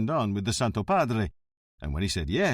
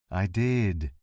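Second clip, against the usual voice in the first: calm; 2 semitones lower than usual. Acted. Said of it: "Montalbano said calmly".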